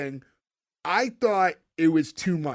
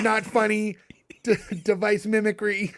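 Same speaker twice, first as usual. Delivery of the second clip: fake alien voice; 3 semitones higher than usual. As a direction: intone it like a stiff fifties alien. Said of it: "I love you doing the voice".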